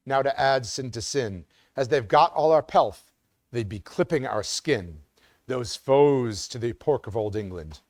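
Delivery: put-on measured, rhythmic reading of an old ballad; poem recitation. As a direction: recite it like a stately old drinking song, slowing on the refrains. Reads an 18th-century poem aloud.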